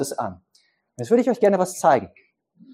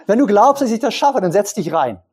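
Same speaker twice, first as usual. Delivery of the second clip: higher and louder, daring a spectator; challenging tightrope walker; 4 semitones higher, 4 dB louder than usual. Acted. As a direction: dare him to put his money where his mouth is.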